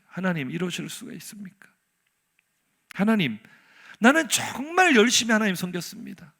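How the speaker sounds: acted plea, building to emphatic insistence; indignant protest. Prophet pleading his loyal service to God, indignant. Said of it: "울분을 토하며 말하는 거예요".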